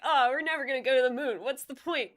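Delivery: loud, fast Boston naysayer; Boston accent. Acted. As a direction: scoff in a broad Boston accent. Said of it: "he's full Boston accent".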